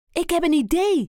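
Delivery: a hint of a chirpy hen; light hen voice; Kip voice. A narrator's reading. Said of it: "zegt Kip".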